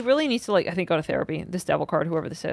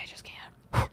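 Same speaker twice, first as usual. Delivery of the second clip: whispered; 10 dB quieter than usual. Real, not acted. Overwhelmed, giving up on him.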